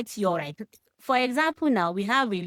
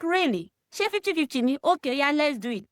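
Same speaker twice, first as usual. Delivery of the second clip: sarcastic retort; 6 semitones higher than usual. Retold or imitated. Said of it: "I was like".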